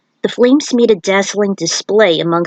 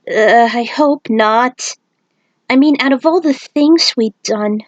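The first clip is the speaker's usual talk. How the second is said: worried; 4 semitones higher than usual. Acted. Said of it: "Aiku grew worried".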